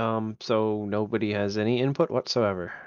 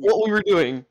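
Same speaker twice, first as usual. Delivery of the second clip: higher, raised reproach; exasperated scolding; 8 semitones higher, 5 dB louder than usual. Real, not acted. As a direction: scold the inattentive player. Scolding continues.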